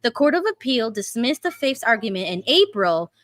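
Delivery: steady, careful article reading; measured read-through of a news report; news article read-aloud. Acted.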